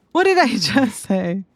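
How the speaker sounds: laughing. Real, not acted. Repeats it laughing.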